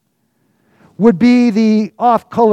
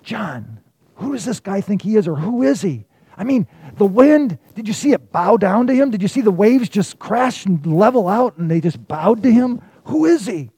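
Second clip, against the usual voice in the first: gossiping disciple; 3 semitones higher than usual. Acted. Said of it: "they started to gossip".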